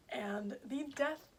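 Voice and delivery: talking through hiccups; words broken by hiccups; hiccuping. Real, not acted. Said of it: "Sorry, I'm, like, hiccuping".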